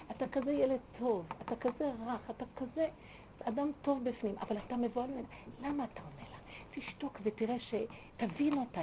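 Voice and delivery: gentle, softened reassurance; soft speech. Retold or imitated. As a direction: coax him kindly, keeping it soft. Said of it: "נתן לי דיבור רך לאיש הזה". (דיבור רך ומפייס)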